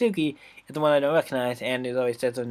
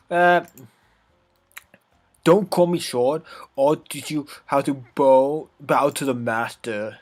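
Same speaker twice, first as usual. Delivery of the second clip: put-on sassy bratty girl, scornful; 4 dB louder, slower than usual. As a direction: scoff like a bratty tsundere. Natsuki voice.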